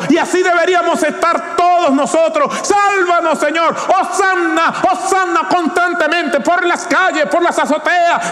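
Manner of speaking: high, fast, crying-out sermon; impassioned preaching. Real, not acted. Preacher urging the church to cry hosanna, impassioned. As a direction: pour it out like a desperate prayer.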